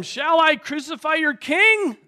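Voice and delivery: high, loud challenge to a crowd; provoking appeal. Acted. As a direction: call it out as Pilate goading the mob. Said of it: "Pilate again provokes them again".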